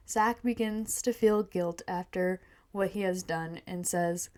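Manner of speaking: measured reading of a story; first-person tale, evenly told; story narration. A narrator's reading. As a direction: read it aloud like a storyteller. Reads her story aloud.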